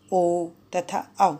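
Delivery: vowels drawn out, slow; long vowels demo. Shown as a demonstration. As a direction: stretch each long vowel slowly. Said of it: "उन्हें दीर्घ स्वर कहते हैं". (दीर्घ स्वर धीरे खींचकर बोलना)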